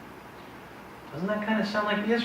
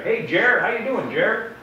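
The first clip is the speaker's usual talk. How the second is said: friendly greeting; 8 semitones higher, slower than usual. Retold or imitated. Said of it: "I'm Jer".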